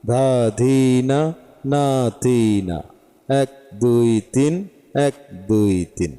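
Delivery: slow, measured chanting of the bols and counts; slow bol recitation. Shown as a demonstration. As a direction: keep each syllable on the beat like a drill. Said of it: "এই বলার মাঝেই কিন্তু তালটা চলে আসে".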